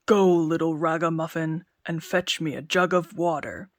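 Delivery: lordly giant offering a job. Acted. Giant speaks.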